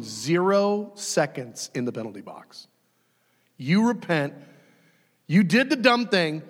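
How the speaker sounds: usual speaking voice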